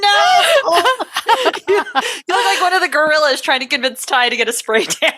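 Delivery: laughing jab at a friend; laughing tease. Real, not acted. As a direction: giggle the insult out. Laughing while teasing.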